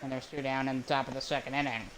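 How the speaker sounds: brisk announcer call of the play. Acted. Streamer calling his own video game, play-by-play voice.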